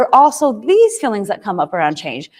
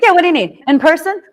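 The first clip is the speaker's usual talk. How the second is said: total confidence; 4 semitones higher than usual. Retold or imitated. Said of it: "I say it with total confidence".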